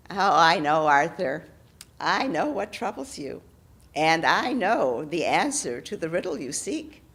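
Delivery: lightly voiced hag teasing with a secret. Hag character voice.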